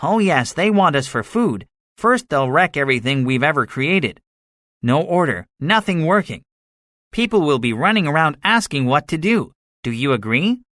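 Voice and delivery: high-pitched soldier, delighted by the horror; gunner relishing doom. A narrator's reading.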